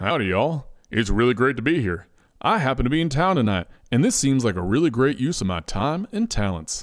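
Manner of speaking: relaxed, calm, friendly, cordial cowboy voice. Reading a story, the celebrity judge Blake McManus greets everyone: Blake McManus cowboy voice. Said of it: "Blake says in his calm, cordial cowboy voice".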